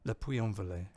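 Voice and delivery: English speaker saying Lyon and Le Puy-en-Velay with a clumsy French accent; mild attempt at French pronunciation; terrible French accent. Real, not acted. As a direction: try the French place names and miss. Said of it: "sorry for my terrible French accent".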